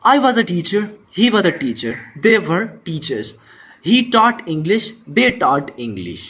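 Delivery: careful read of each example sentence; slow example reading. Shown as a demonstration. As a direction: read the table aloud for the class. Teacher reads example table.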